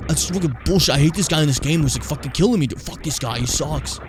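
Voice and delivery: a light demo of a streamer losing it; half-hearted fake gamer tantrum; mock rage streamer. Shown as a demonstration. Streamer showing the rage moment he can't pull off, mild mock fury. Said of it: "Where I just go".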